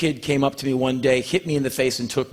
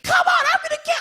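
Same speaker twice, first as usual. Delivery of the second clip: mock tough guy; much faster than usual. Mocking fake tough-guy story.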